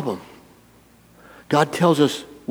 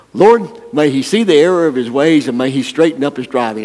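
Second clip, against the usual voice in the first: mock pious blessing; 2 semitones higher, 5 dB louder than usual.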